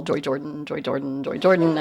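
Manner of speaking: name repeated in a bouncing beat; singsong bouncing repetition; bouncing-ball rhythm. Shown as a demonstration. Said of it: "sounded like a bouncing ball".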